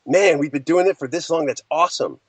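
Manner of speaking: upbeat, pleased take on the line; excited. Shown as a demonstration. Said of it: "It's like".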